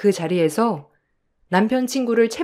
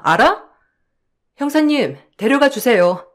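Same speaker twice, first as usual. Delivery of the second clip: furious scolding. Acted. Wife telling off the con man at his arrest, furious. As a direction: tear into him and don't let up.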